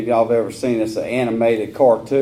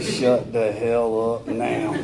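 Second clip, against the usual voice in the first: slow, softer, hushed warning; 2 semitones lower, 6 dB quieter, much slower than usual. Retold or imitated. Dad hushing his teasing sons in the theater, slow hushed warning. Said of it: "I was like".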